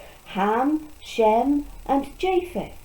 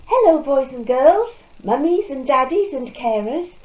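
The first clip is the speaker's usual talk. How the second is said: put-on overbright kids party host; 4 semitones higher, 6 dB louder than usual. Greeting children on show.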